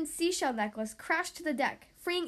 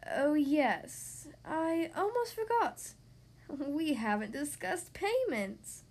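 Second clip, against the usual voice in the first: sea witch voice; slower than usual. Acted. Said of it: "said Ursula".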